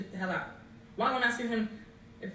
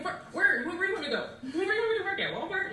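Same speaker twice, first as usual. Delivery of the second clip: higher, laughing through the question; laughing disbelief; 9 semitones higher than usual. Retold or imitated. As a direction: laugh incredulously at the idea. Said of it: "And I'm thinking".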